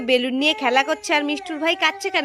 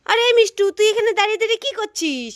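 higher-pitched startled challenge; suspicious questioning; 6 semitones higher than usual. Acted. Mother catches child standing about, suspicious questioning.

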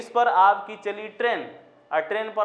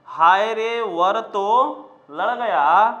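slow, louder wail ending on a rise; louder mock cry; 4 dB louder, slower than usual. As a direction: cry it out in alarm, rising at the end. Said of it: "देखिए".

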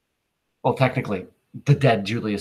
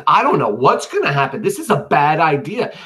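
worried protest; 4 semitones higher, 5 dB louder than usual. Acted. Cassius worries about the plan.

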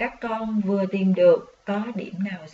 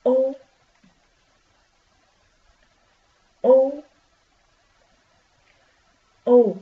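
loud model reading; 2 semitones higher, 7 dB louder, slower than usual. Shown as a demonstration. Teacher leading children in reading U, loud and clear. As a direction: call out U loudly and clearly. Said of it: "Các con đọc với cô nha".

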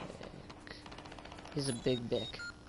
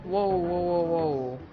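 startled whoa; 4 semitones higher, 7 dB louder, slower than usual. Real, not acted. Startled by something in game.

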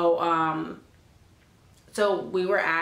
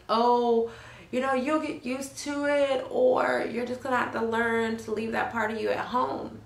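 mock patronizing advice, higher; mock advice-giver; 4 semitones higher than usual. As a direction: parrot their easy advice back, mocking. Mocking what people tell her.

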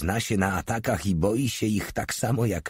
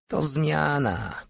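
calmly; 8 semitones higher, much slower than usual. A narrator's reading. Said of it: "powiedział spokojnie Porta".

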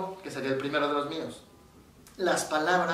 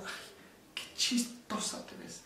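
mocking grandmother; 6 semitones higher, 13 dB quieter, slower than usual. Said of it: "se lo decía en un tono de, "Qué ridícula".

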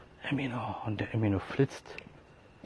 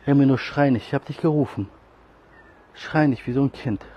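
loud, higher scolding of the cat; 3 semitones higher, 7 dB louder than usual. Real, not acted. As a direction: tell the cat off loudly. (lautes Schimpfen mit der Katze)

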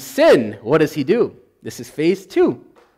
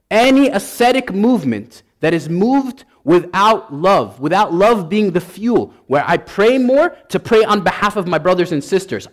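louder, fervent preaching at full force; worked-up preaching; 3 dB louder than usual. Real, not acted. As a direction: preach it with real heat, louder. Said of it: "I got a little bit worked up".

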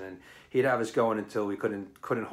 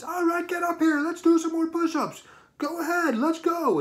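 much higher, loud commanding call; drill instructor order; 5 dB louder, much faster than usual. Retold or imitated. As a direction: summon him up front like a drill sergeant. Instructor calls the joker forward.

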